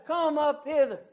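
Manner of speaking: preacher voicing God's plea. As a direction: plead as God calling upward, hammering each don't. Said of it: "the voice of the great God of heaven who says".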